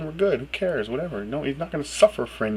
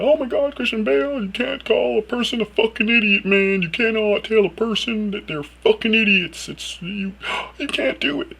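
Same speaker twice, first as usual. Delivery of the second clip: high, loud, shocked mock outrage; bleeding heart voice; 11 semitones higher, 4 dB louder than usual. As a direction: gasp in pearl-clutching horror at the swearing. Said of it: "That's my bleeding heart voice".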